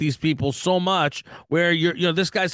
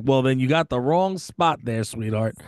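teasing; 5 semitones lower than usual. Retold or imitated. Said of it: "I'm like".

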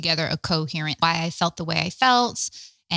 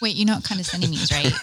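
laughing question; faster than usual. Real, not acted. Both laughing at his joke.

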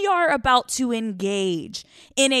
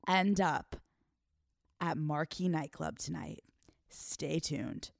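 teasing cliffhanger whisper; 5 semitones lower, 11 dB quieter, slower than usual. Real, not acted. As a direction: breathe it out like a secret.

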